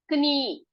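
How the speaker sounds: कनी with the k sounded before n; "k-nee", k audible in कनी; spelling pronunciation. Shown as a demonstration. Teacher voicing a hasty misreading, spelling pronunciation. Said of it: "झट से हम पढ़ेंगे".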